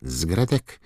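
high, squeaky elf voice; Dobby house-elf voice. A narrator's reading. Dobby reassuring. (wysoki, piskliwy głos skrzata)

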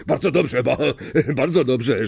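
pleased chuckle while praising; with a smile. Acted. Lupin praises Harry's attempt, smiling with a laugh. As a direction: praise through a light laugh. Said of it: "rzekł Lapin z uśmiechem".

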